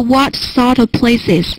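slow, careful repeat of the question; slow quoting demo. Shown as a demonstration. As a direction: spell the question out slowly for students. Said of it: "他不又问了一个问题吗". (慢速示范问句)

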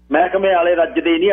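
plain reading voice

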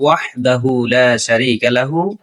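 slow careful Arabic recitation. Shown as a demonstration. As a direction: recite each word clearly. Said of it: "সঠিকভাবে সহি শুদ্ধ করে". (ধীরে শুদ্ধ তিলাওয়াত)

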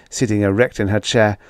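ordinary delivery, nothing marked

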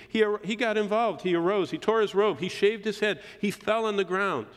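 high, loud, urgent preaching; emphatic retelling. Retold or imitated. Preacher contrasting Job's grief with sitting idly, emphatic retelling.

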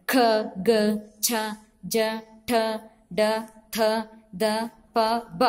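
isolated syllables ఖ, ఠ, థ, ఫ, each heavily aspirated; pressed aspirated consonants. Shown as a demonstration. Teacher shows pupils the heavy letters ఖ, ఠ, థ, ఫ, pressed and breathed out. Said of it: "ఒత్తి పలుకుతాం".

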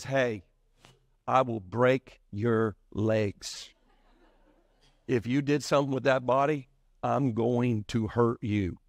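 mock low, deliberate threat; tough threat. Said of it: "She's about to hurt somebody".

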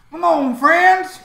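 high, slow, loud yell to friends. Acted. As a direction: stretch the call out loud and high. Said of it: "yelling to all of you".

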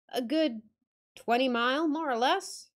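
put-on old northern guide, curt; Yorkshire accent. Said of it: "attempt the accent".

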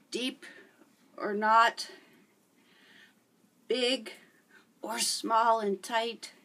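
panting out of breath mid-workout; out of breath, words between breaths. Real, not acted. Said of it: "So I'm out of breath".

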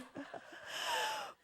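breathy high laugh. Real, not acted. Preacher amused by her retold yelling, laughing. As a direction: laugh at your own shouting.

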